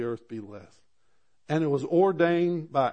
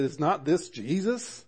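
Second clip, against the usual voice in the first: higher, louder mocking disbelief; incredulous scoffing, pitched up and loud; scoffing crowd; 5 semitones higher, 6 dB louder than usual. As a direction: sneer at the idea with a laugh. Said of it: "because they said".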